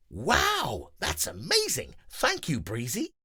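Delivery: grateful Grover. Acted. Grover thanking Breezy, awed. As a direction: marvel then thank.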